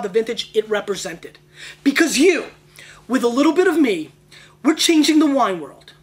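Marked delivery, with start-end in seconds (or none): 1.8-5.9 loud, high rallying cry; rally the viewers behind a mission; rousing. Real, not acted. Rallying the audience to change the wine world, loud and high.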